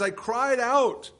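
"I cried out" stretched very slowly, "out" pitched high and loud; stress on out. Shown as a demonstration. Pastor driving home that the psalmist prayed aloud, stressing out. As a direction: drag out "out" to make the point. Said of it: "He's emphasizing the fact here that this is out loud".

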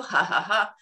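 light put-on giggle; deliberate small laugh; demonstrated giggle. Shown as a demonstration. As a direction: show a little ha-ha giggle. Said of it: "When we add a giggle".

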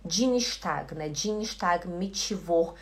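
"Dienstag" as djinishtag, "mitivor" as mitchivor; Belém dji and chi. Retold or imitated. Teacher recalling her old mistakes, "Dienstag" with dji, "mitivor" with chi. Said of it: "era esse di".

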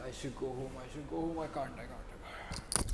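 faint, high pained murmur. Real, not acted. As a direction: barely get it out through the pain. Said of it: "my stomach hurts".

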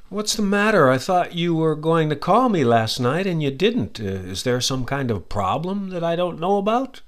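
a concerned friend asking why you never called; worried friend. Acted. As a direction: act out a friend who feels let down. Acted example of a worried question.

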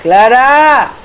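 high, drawn-out calls for his lost family; calling out desperately. Acted. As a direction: shout their names slowly across the dark. Ghost father searching for family.

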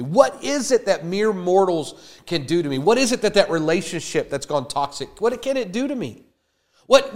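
David scoffing at what mortals can do; David defiant. Retold or imitated. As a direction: challenge every fear, fired up. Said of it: "He's like".

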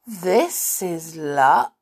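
slow, soft snowman voice; a gentle snowman, drawn out; soft snowy voice. Acted. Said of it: "in a soft, snowy sort of voice".

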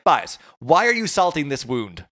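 high, loud pleading voice with a slow drawn-out end; voicing fed-up locals telling marchers to leave; mock exasperated plea. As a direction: plead with them to go elsewhere, hammed up.

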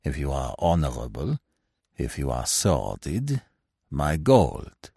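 low looming threat, dry and cold; cold, low, unhurried warning. Acted. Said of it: "said the stranger dryly".

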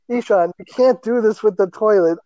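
high, mock scolding; imitated parental lecture. Parents lecture Ishan about the toilet, scolding. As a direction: scold like a parent, lightly acted. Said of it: "giving him a lecture".

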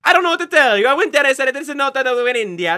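loud, high-pitched insistence; exasperated protest. Acted. Explorer arguing with doubters over his discovery, loud exasperated protest. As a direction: protest loudly, pitch pushed right up.

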